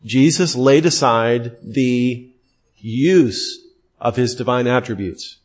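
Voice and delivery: slow and deliberate, pausing before "use"; emphatic repetition. Real, not acted. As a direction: repeat it for emphasis, setting "use" apart after a pause. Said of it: "Let me repeat that for emphasis".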